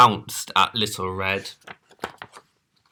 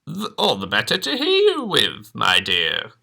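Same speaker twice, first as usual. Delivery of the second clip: croak 1. Acted. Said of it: "croaked the wolf".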